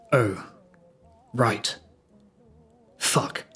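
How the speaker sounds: subdued, halting, with pauses between words; sinking realisation. Retold or imitated. Prisoner understanding the gravity of facing jail, subdued. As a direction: let it sink in, quietly. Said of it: "suddenly understanding the gravity and the loneliness".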